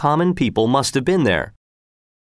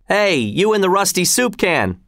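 high-pitched heckling call; mock shout; 8 semitones higher than usual. A narrator's reading. Heckler getting personal with armored soldier, mock shouting. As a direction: call across a field without real volume. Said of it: "shouted one".

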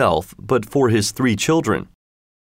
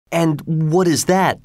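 higher, slow fisherman asking; a wary fisherman, pitched up; 7 semitones higher, slower than usual. A narrator's reading. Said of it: "asked the fisherman".

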